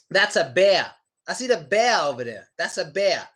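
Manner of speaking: "bear" ending in "uh". Shown as a demonstration. Teacher showing non-New York speech, R dropped. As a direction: leave the R off "bear". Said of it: "We don't really do that too much in New York".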